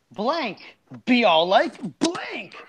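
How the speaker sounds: dramatic reading. Acted. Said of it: "I like the way you read that".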